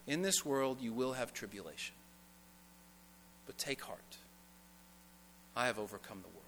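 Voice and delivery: hushed and slow, letting each phrase land; preacher softly repeats Jesus' words to the congregation, hushed; soft, slow reading. Shown as a demonstration. Quiet tender repetition. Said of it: "Let it sink in".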